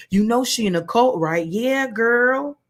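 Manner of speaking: mock gossips. Women gossiping once you leave, mock gossipy voices. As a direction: imitate two gossips trading a quick remark. Mimicking gossips behind her back.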